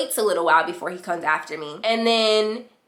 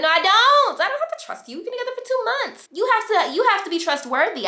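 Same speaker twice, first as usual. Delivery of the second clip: high-pitched, heated comeback; retold indignant retort; 13 semitones higher than usual. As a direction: act out an exasperated argument. Acted quarrel about trust.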